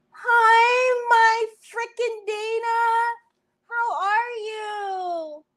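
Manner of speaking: high, drawn-out excited hello; real squealing, stretched-out welcome; delighted greeting. Real, not acted. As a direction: gush over a friend who just turned up. Greets a friend joining the stream.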